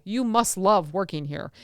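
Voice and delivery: "love" slowed and leaned on; slow line with weight on "love"; stress on LOVE. Shown as a demonstration. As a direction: lean on the word "love", drawing the phrase out. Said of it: "it's love is on the italics".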